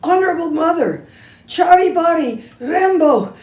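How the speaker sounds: put-on flustered boy garbling his brother's name; tongue-tied rush. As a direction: trip over the long name laughing. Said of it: "he can't".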